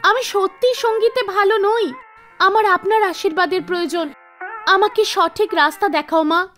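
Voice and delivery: lightly voiced girl, a touch disheartened; gently imploring heroine; pleading young singer. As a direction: pray earnestly for guidance. Meena prays to the goddess.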